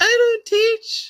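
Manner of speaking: very high feminine voice. Retelling what a woman teacher said, in a woman's voice. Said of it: "So say it like a woman".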